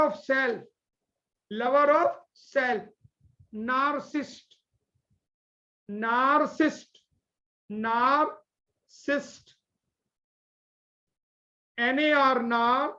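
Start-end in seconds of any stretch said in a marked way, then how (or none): 3.5-9.6 narcissist slowed down syllable by syllable; drilled word. Shown as a demonstration. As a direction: say narcissist slowly, nar-sis-sist. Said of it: "teacher drilling the word". (नार्सिसिस्ट को धीरे धीरे बोलना)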